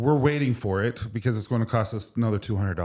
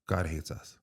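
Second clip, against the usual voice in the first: self-pitying despair; 5 semitones lower, 8 dB quieter than usual. Retold or imitated. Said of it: "I'm in a pity party".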